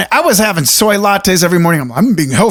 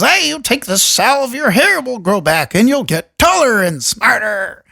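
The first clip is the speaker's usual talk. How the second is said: a higher, slow salesman's pitch, hamming it up lightly; snake oil salesman; 4 semitones higher than usual. Retold or imitated. Pitching a miracle cure to a gullible crowd, slow higher huckster voice. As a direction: sell a miracle salve like a carnival huckster. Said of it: "The snake oil salesman comes up and goes".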